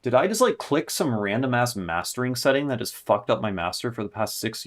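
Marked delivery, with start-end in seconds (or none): 0.0-3.3 it just dawned on you, outraged; shocked disbelief. Real, not acted. Producer realizing his own setting broke the mix, shocked.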